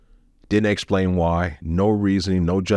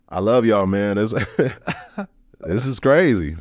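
laughing; 3 semitones higher than usual. Retold or imitated.

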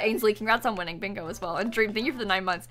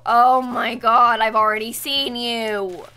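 slow, drawn out, louder groan; exasperated; 4 dB louder, slower than usual. Real, not acted. Streamer fed up at a repeat pull. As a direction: drag it out, fed up.

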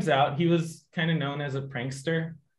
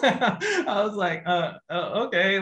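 laughing; 5 semitones higher, slower than usual. Retold or imitated. Laughing at own stunned reply.

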